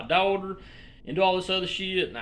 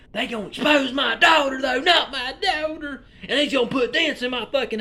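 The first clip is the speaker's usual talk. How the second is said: high, louder hammed-up wail; mock wailing; 10 semitones higher, 6 dB louder than usual. Vlogger mock-wailing again about his daughter. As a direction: cry it out as a fake lament.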